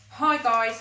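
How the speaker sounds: put-on a boy showing off to the top dogs; cool casual greeting. A narrator's reading. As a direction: flaunt the bracelet with a breezy hi. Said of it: "he said".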